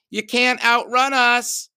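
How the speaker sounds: loud, high, slow jeering; taunting shout. Acted. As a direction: yell it slowly like a bully. Bully Sarah taunts fleeing narrator.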